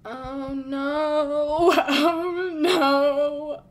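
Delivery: alarmed cry of oh no; scared. Real, not acted. Spooked by noises in game.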